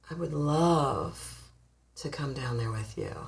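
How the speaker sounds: soft, slow, low and breathy-whispered; sultry reply. Pretend. Woman on her dragon answers the ex, soft slow sultry whisper. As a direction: purr it down to him, teasing and slow. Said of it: "you're going to say".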